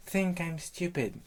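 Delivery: high, slow echo; high-pitched parroting; echoing nymph. Acted. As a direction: repeat it back slowly in a high voice. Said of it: "you will repeat the last words".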